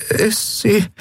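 put-on quick hurried order from a boy; boy telling his friend to wait, lightly voiced; young boy. Boy shocked.

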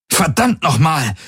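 höher, drängend gerufen. A narrator's reading. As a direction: ruf es ihm verzweifelt zu. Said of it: "rief seine Projektion". (verzweifelter Ruf der Projektion an Ylana)

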